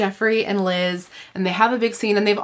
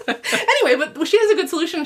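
still laughing; 9 semitones higher than usual. Real, not acted. Still laughing after quote.

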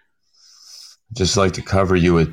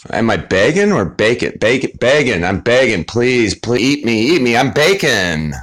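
begging bacon voice; 2 semitones higher than usual. Pretend. Playing bacon begging friends to eat it, mock pleading. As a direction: beg to be eaten, hammed up.

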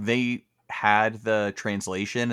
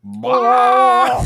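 very high, loud silly bleat; sudden high honking Dugong noise; Dugong cry; 13 semitones higher, 12 dB louder than usual. Retold or imitated. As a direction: blurt it like a goofy sea creature. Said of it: "it's like".

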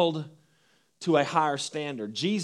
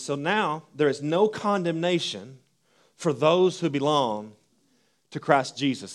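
slow, deliberate Bible reading; measured reading of Romans to the congregation; scripture reading. Acted. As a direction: read each phrase slowly so it sinks in. Reads Romans aloud slowly.

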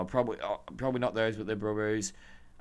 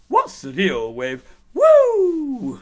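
much higher, much louder, very slow strutting wrestler voice as a stand-up; Ric Flair doing Seinfeld; 14 semitones higher, 12 dB louder, much slower than usual. Retold or imitated. Picturing Ric Flair trying stand-up, big hammed-up wrestler voice. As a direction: ham up the old wrestler doing a comedy bit. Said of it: "I can't even do a good im-, Ric Flair impression".

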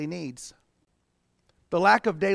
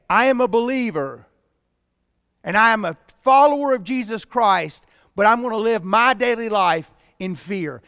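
mock proud claim; 5 dB louder than usual. Mocking a fearful believer's claim.

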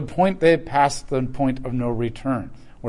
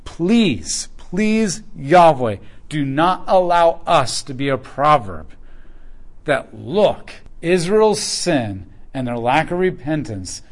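pleading prayer; slower than usual. Retold or imitated. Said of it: "Then he says".

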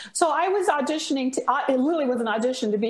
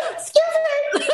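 loud excuse me through a laugh; 14 semitones higher, 5 dB louder than usual. Retold or imitated. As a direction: repeat the protest while laughing. Repeating the outburst while laughing.

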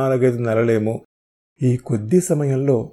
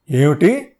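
incredulous repeat; 4 semitones higher, 4 dB louder, slower than usual. Acted. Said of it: "అన్నాను రెట్టిస్తూ".

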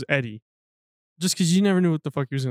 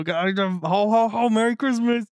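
mock Eddie Santa greeting; 5 semitones higher, slower than usual. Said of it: "And he go".

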